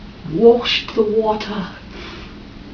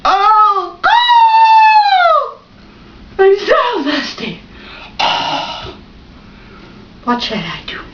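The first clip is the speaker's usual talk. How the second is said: thirsty crow; 10 semitones higher, 5 dB louder than usual. Acted.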